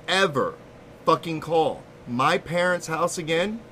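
slow, deliberate retold threat; imitating a seething friend's measured warning; mad friend. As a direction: spell out the warning word by word, with long pauses. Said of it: "He is so mad".

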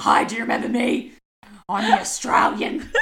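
imitating friend's awkward chat-up; mock flirty greeting. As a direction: tease her by parroting her line. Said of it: "be like".

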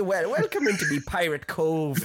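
pirate voice. Retold or imitated. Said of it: "And then I end up".

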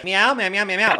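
high meowing warm-up; high sung meows; vocal warm-up. Shown as a demonstration. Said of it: "let me warm up".

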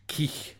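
Keich said as kee, then the throaty Scots ch. Shown as a demonstration. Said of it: "K E I C H".

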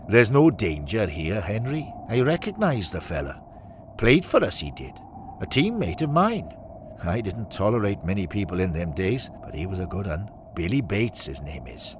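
acted Welshman, lilting pitch; Welsh accent. Former winger reassures Henry, Welsh accent. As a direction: speak up in a Welsh lilt. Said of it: "The Welshman says".

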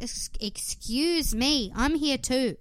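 lightly acted, drawn-out "excuse me"; mock indignation. Voices contestant asserting herself.

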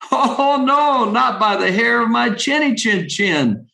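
a small pig bravely saying no; second little pig. Acted. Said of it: "said the second little pig".

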